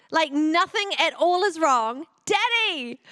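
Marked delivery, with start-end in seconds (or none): 2.3-3.0 put-on higher, baby voice squealing for daddy; delighted baby. Baby on mum's hip greeting her father, delighted. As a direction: reach for daddy with joy.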